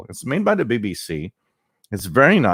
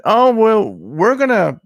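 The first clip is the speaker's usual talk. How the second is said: mock Russia; 7 semitones higher than usual. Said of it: "and Russia said".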